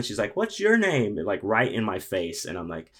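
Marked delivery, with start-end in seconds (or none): 0.3-1.2 high, loud hammed-up drunk woman. Drunk woman accosting the desk clerk, high and loud. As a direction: play the tipsy stranger barging in.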